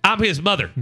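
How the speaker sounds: a hint of a mother announcing herself; mom's voice. Mom introducing herself to son's classmates, mom's voice. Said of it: "let me give you my mom's voice".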